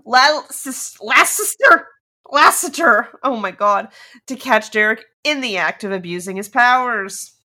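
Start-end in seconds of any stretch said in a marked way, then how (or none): 0.1-3.1 frustrated shout. Real, not acted. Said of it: "I can't even say this guy's name".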